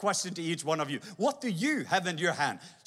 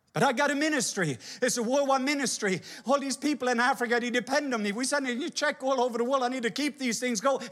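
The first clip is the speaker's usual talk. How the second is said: higher, insistent; defensive protest; 5 semitones higher than usual. Acted. Preacher defending his ministry to God, higher. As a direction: argue your case to God.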